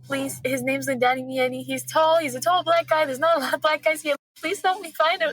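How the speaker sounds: desperate plea. Retold or imitated. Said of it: "I'm asking the lady at the front door".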